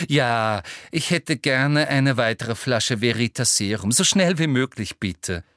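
lightly sugary, pushy request; sweet but demanding; Umbridge voice. Acted. (leicht süßliche Umbridge-Stimme)

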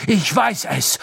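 high, loud howled protest; howling Snape. A narrator's reading. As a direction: howl it out in frantic certainty. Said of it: "heulte Snape".

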